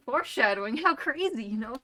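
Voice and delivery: hammed-up loud aside; mock excitement. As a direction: hype up the foreshadowing. Mock-dramatic aside on foreshadowing.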